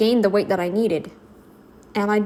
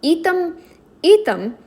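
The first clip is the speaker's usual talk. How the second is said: mock commands; 4 semitones higher than usual. Mock orders to the cameraman.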